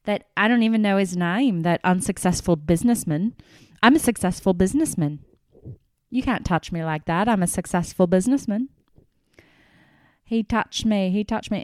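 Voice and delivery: loud, fast indignant rant; imitating angry rant. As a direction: rattle it off like an offended big shot. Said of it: "he's like".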